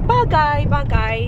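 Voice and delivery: "bagay" said carefully, two syllables BA-gay; slow correction, bagay. Shown as a demonstration. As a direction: spell out "bagay" for a learner. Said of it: "A bagay top?".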